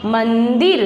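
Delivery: मंदिर with a clear n before द; correct reading, nasal sounded. Shown as a demonstration. Teacher corrects the child, मंदिर with its n sounded. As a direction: lean on the half न in मंदिर. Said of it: "आपको कैसे पढ़ना है बेटा?".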